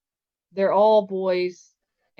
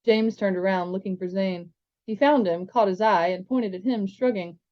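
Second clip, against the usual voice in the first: even read-aloud storytelling; story narration. A narrator's reading. Reading a chapter aloud to listeners, steady narration.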